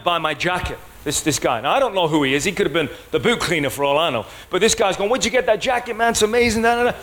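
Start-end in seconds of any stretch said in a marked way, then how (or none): 5.1-7.0 high-pitched imitation of an excited fan; acted-out eager enthusiasm; really excited. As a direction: gush over the jacket, trailing into da-da-da. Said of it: "he's getting really excited about it".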